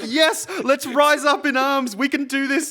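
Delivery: rally them like an Irish advocate; Irish rallying cry. Pretend. Imitating Irish advocates calling people to arms, rousing mock-Irish. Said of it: "talking about the poor in their Irish accent".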